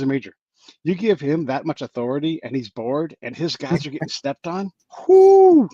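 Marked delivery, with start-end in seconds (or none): 5.1-5.7 whoo exclamation. Real, not acted. Reacting to the Aussie's fury.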